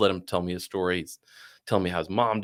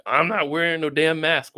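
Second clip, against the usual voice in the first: high-pitched put-on voice of defiance; imitated stubborn refusal; 7 semitones higher than usual. Man refusing a mask for the Uber, defiant. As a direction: imitate a man digging his heels in.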